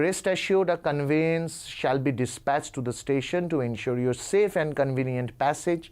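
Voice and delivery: put-on slow, formal read of an old-fashioned letter; slow, careful reading of a formal letter; reading aloud. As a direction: stretch out each phrase for students.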